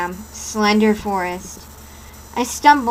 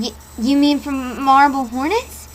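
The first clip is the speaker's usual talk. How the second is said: startled; 4 semitones higher, 4 dB louder than usual. Acted. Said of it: "My eyes widened and I started".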